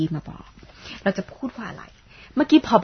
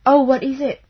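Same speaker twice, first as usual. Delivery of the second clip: surprised question; 6 semitones higher, 6 dB louder, much slower than usual. Shown as a demonstration. Teacher acts out listener's reply.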